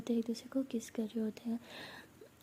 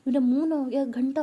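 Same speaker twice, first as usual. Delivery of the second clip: indignant outburst; 7 dB louder than usual. Acted. Sulking daughter complains about being slapped.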